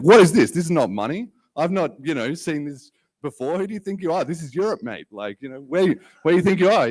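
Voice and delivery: high-pitched mock outrage, loud at first; imitating an irate waiter, voice up high; angry waiter. Retelling an angry pizza waiter yelling at a foreign customer, high mock outrage. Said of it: "real aggro with me".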